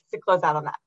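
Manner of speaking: losing voice, hoarse and cracking; hoarse, voice giving out. Real, not acted. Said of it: "I'm losing my voice a little bit".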